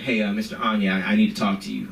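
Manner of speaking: low, measured, businesslike request; very professional kid. Retold or imitated. Third grader stopping the teacher, mock-professional and low. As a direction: imitate a child being very professional. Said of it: "He sounded very professional".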